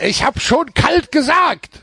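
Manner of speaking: high, slow, miffed gadget voice; annoyed phone voice. Pretend. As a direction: play the sulking phone, drawn out. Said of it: "Wird das Handy auch sauer".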